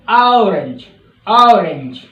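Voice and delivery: ऑरेंज said aurenj, low; British orange. Shown as a demonstration. Teacher showing the British orange. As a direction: open औ in ऑरेंज. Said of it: "ऑरेंज नहीं होता".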